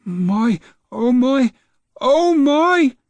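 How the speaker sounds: grandma thrilled as she takes off; delighted cry. Acted. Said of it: "Grandma cried".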